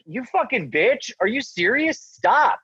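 high, frantic protest; panicked yell. Retold or imitated. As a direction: protest as he charges you. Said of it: "and I'm like".

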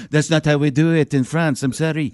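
light mock French accent; lightly put-on French. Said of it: "That was my French".

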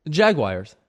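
Jaguars said as jag-wire; Jaguars, ending sounded like wire; his Jaguars. Shown as a demonstration. Repeating the team name on request, Jaguars as jag-wire. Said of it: "Just say it again".

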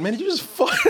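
amused incredulous imitation; laughing mock question. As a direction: laugh while voicing the stunned co-star. Imitating co-stars reacting, laughing.

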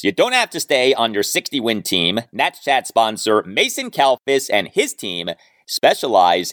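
upbeat sponsor read, punchy and bright; podcast host reading an ad for listeners, upbeat pitch. Acted.

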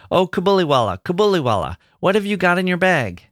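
put-on a small girl giggling at her big friend; little girl teasing. A narrator's reading. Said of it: "Minnie would ripple her face with laughter and begin".

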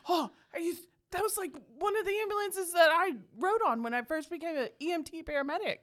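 lightly imitating an excited husband; geeking-out husband. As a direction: voice his mild, eager fanboying. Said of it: "My husband was geeking out".

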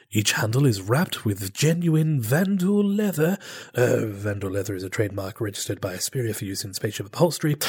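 lightly voiced TV pitchman; home shopping host. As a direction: sell the knife set like late-night TV. Continues infomercial pitch.

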